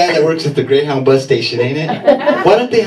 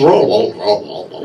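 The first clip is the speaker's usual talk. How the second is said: put-on southern accent; 5 semitones lower, 3 dB louder than usual. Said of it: "That southern accent kills me".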